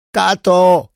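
loud high scream, falling; a daughter screaming for her father. A narrator's reading. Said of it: "krzyknęła Lena".

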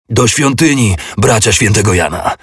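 shouted rallying call; battle cry. Acted. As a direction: master shouting to his knights. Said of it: "krzyknął mistrz".

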